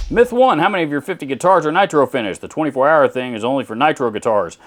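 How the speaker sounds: mocking a commenter in a put-on Texan accent. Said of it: "if you hear me break it out to make fun of something".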